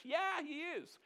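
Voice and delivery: high, drawn-out emphatic yes; emphatic affirmation. Acted. Preacher answering a doubting churchgoer, emphatic affirmation. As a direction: answer the doubt with soaring conviction.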